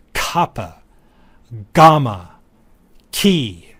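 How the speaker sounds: Kappa, gamma, ki said one by one, each opening at the back of the mouth; velar sound demonstration. Shown as a demonstration. Teacher showing throat-made stops, "Kappa, gamma, ki" as separate demonstration words. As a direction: set apart "Kappa", "gamma", "ki", stopping the air far back for k, g and ch. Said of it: "interruption occurs further back in the".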